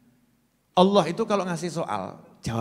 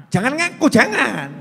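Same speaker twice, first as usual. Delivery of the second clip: laughing; 8 semitones higher, 10 dB louder than usual. Real, not acted. Joking warning to audience.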